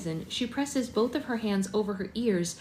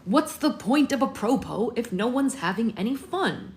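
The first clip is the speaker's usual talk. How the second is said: yell; 3 semitones higher, 3 dB louder than usual. A narrator's reading. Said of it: "Plutarch yells".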